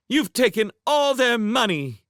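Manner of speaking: put-on girl accusing the villain aloud; called out. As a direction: call it across the room. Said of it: "Charmaine called out".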